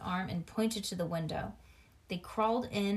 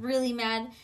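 usual speaking voice

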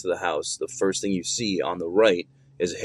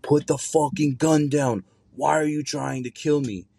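retold furious yell, pitched higher and slow; angry outburst; 7 semitones higher than usual. Confused grandfather turning on his grandson, higher, slow angry yell. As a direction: voice the confused grandfather lashing out, high and dragged. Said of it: "and he goes".

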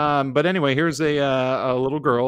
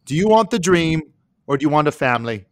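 dramatic talent show judge. Acted. Mock Simon Cowell judging.

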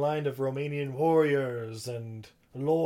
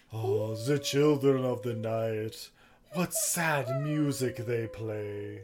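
mock Dracula; 2 semitones lower, much slower than usual. Co-host quoting Dracula to Lucy, slow mock brooding voice. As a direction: savour each word like a brooding count.

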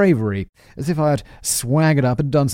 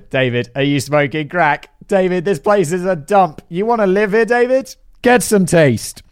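higher, louder mocking disbelief; exasperated Alex quote; 7 semitones higher, 5 dB louder than usual. Alex scoffing at David's cabin dream, exasperated and loud. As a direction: scoff at David like he's lost his mind. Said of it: "Alex snorted and said".

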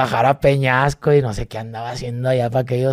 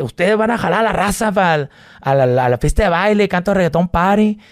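hype MC call; 5 semitones higher than usual. Retold or imitated. Hyping crowd.

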